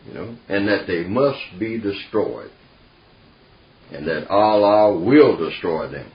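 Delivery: retold verdict, firmly emphatic. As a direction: lay it down as someone else's final word. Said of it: "he was quite emphatic about that".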